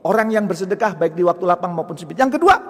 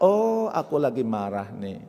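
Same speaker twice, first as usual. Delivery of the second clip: calm realisation; 2 semitones lower, 4 dB quieter, slower than usual. Acted. Acting calm realisation of own anger.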